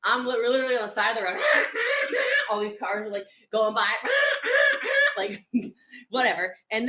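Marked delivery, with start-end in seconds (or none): 1.4-2.5 high, loud mimicked whoosh of traffic; high imitated engine noise; imitated car noise. Imitating cars passing on the road. 3.9-5.1 high, loud mimicked passing car; high vocal car effect; imitated car noise. Imitating cars going by.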